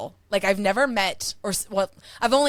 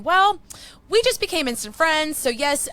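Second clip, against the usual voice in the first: ordinary talk, nothing marked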